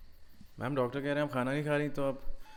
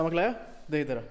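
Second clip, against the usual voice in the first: eager demand; 8 semitones higher, 4 dB louder than usual. Acted. Torturer demands salt.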